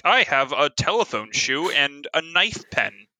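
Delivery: slow, lightly hammed-up retro spy line; a touch of campy seventies gadget-movie delivery; campy sixties spy. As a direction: play it lightly as vintage spy camp. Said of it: "like, the campiness from, like, the sixties and seventies".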